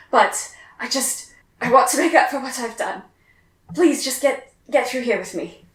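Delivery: hurried, earnest plea; pleading fugitive. Acted. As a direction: rush to win their trust. GM voices NPC pleading escape.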